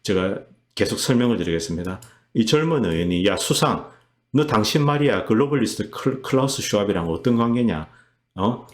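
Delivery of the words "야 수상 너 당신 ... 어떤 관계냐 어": lightly acted, pressing demand for answers; imitated interrogation. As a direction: play a lawmaker taking the prime minister to task. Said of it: "이렇게 이제 따지고 있는 겁니다". (수상에게 따지듯 묻는 흉내)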